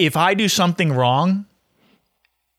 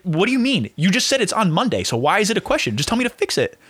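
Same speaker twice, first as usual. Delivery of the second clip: higher, mock-confused whine; 6 semitones higher than usual. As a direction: play dumb to mock the fake question, pitched up. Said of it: "You're not being nice".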